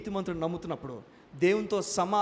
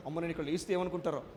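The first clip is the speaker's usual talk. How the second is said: quick, softer mock of a shy listener; mock timid churchgoer; 4 semitones lower, 5 dB quieter, faster than usual. Preacher mimicking a shy churchgoer, quick and soft. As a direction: tease the nervous congregation member. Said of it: "భయపడిపోతారు అందరూ".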